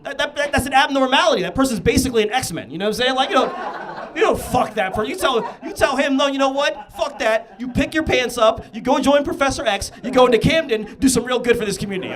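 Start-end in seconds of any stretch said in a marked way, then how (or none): 3.3-12.2 loud, high-pitched comic tirade; excited rant. Real, not acted. Comedian ranting to the crowd, high and loud. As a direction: push it up into a ranting yell.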